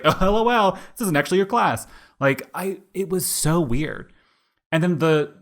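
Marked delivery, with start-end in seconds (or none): 0.0-1.9 high, loud teasing reveal; mock prank host. Imagining a prank show host revealing the fake class, hammed-up. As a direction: pop out like a hidden-camera host.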